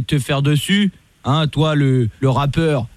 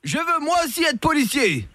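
mock dictation; 10 semitones higher, 5 dB quieter than usual. Fake cop making the rapper recite, mock coaxing. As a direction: coax him like a child. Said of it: "commissaire Latour".

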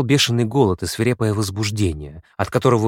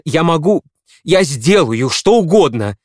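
louder, urgent, pleading; desperate promise; 7 semitones higher, 8 dB louder than usual. A narrator's reading. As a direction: promise it all in a rush of feeling.

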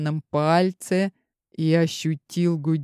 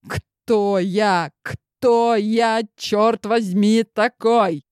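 rising desperation; 4 semitones higher, much slower than usual. Acted. Desperate self-questioning.

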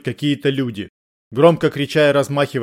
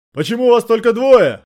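higher, louder shouted question; crying out; 9 semitones higher, 5 dB louder than usual. A narrator's reading. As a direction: call out in alarm. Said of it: "закричал полицейский". (выкрик, выше и громче)

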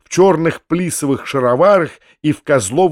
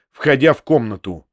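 ordinary delivery

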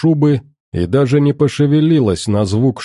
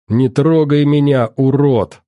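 mild shout; 4 semitones higher than usual. Acted. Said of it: "крикнула вдова".

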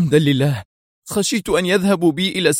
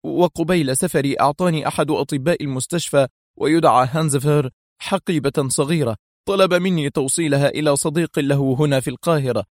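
high-pitched, distressed account; agitated; 6 semitones higher than usual. A narrator's reading. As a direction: recount it with pent-up agitation. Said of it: "وهو يرتجف من الانفعال". (سرد منفعل بنبرة مرتفعة)

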